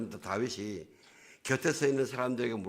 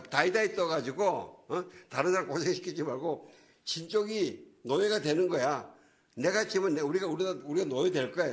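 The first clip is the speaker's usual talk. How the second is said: shouted challenge; 4 semitones higher than usual. Retold or imitated. Goliath dares the Israelite army to send one champion, shouted challenge. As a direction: call out a mock challenge, pitched up in places. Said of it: "딱 소리 지르는 거예요".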